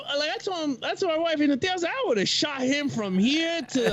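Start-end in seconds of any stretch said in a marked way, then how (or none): 1.9-3.9 laughing through the words. Retold or imitated. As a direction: chuckle while telling it. Laughing while retelling own remark.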